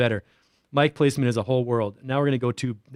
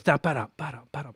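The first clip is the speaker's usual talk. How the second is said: sung echo tail; 4 dB quieter, faster than usual. Shown as a demonstration. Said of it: "so that the last sound goes".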